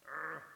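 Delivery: irritated "ugh"; exasperated groan. Acted. Customer kept waiting, an exasperated groan. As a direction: groan with pent-up impatience.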